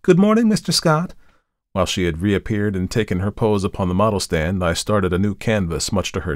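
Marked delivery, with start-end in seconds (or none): 0.0-1.1 high, singing-out greeting; merry. A narrator's reading. Model greets the artist as she arrives, merry. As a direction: call out cheerily, pitched well up. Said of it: "with a merry".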